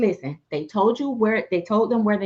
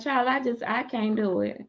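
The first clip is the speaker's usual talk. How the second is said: weary sigh quote; 6 dB quieter than usual. Retold or imitated. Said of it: "talking about".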